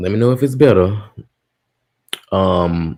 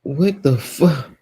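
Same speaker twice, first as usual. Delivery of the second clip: incredulous; 6 semitones higher, much slower than usual. Real, not acted. Audio still broken, disbelief.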